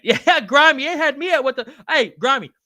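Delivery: squeaky startled cry of the friend's name; shocked, voice cracking high at a friend who wasn't subscribed; voice goes high. Real, not acted. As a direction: pitch jumps way up in shock. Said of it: "my voice got a little high pitched right there".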